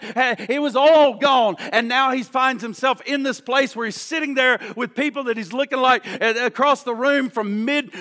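driving preacher cadence, punching key phrases; impassioned preaching. Acted. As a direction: preach it with rising urgency. Preacher builds in force.

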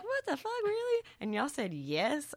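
very high, squeaky what the fuck; replaying shocked disbelief at her parents; retold disbelief. Daughter retells her shocked call to her parents. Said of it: "I was like".

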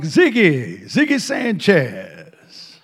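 loud Texas drawl, vowels stretched out; Dale Gentry. Retold or imitated. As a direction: call it out in a big, slow Texas drawl. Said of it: "That's how he talks".

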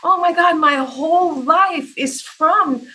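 student breaking down in class, mock tearful; imitating weeping. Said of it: "she was just weeping like".

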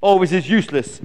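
loud, exasperated eagle; mild frustrated shout. Acted. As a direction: give up crossly. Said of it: "shouted Glen".

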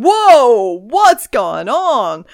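drawn-out, exaggerated whoa; mock astonishment. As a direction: stretch it out in mock alarm. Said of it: "I'm just like, going".

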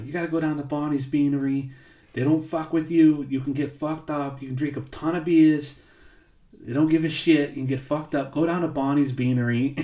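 quick, rough mock New York accent; horrible New York accent. Host quotes neighbor Ken urging him to the bar, bad New York accent. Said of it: "I'm doing a horrible accent".

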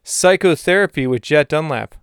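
Douglas's voice. Pretend. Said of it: "says Salamander to Douglas".

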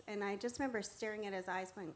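ordinary delivery

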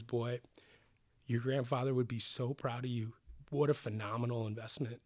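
softly retold, heartfelt pride; understated tender tribute; emotional praise. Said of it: "we had a really emotional moment".

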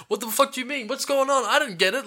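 high, confused mock yelling. Imitating flustered scientists yelling at the wrong person, mock high yelp. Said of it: "yelling the wrong things".

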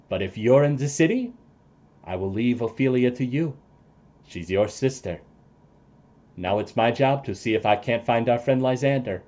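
lightly voiced ally handing over the task; NPC voice. Ally leaves Ophelia to her sister, lightly voiced.

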